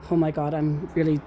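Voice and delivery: ordinary talk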